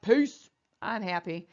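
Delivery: slow, lightly put-on contented atom; a hint of a smug atom waving goodbye; satisfied atom voice. Teacher voices satisfied magnesium leaving.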